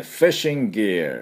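"fishing gear" said the English way; English pronunciation. Shown as a demonstration. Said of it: "こういう音になります".

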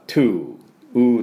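"to" with the "oo" stretched out; lengthened vowel. Shown as a demonstration. Teacher explaining the O, long "oo" in "to". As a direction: clean T, then simply extend the vowel of "to". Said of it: "うーって伸ばすだけです".

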